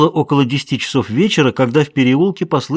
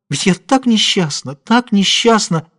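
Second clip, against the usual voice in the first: tearful lament; 8 semitones higher than usual. A narrator's reading. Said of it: "снова залилась слезами".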